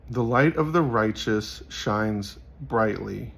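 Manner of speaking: slow, measured Bible reading; solemn slow proverb reading; scripture reading. Acted. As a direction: read the verse out deliberately, slowly. Reads a proverb aloud.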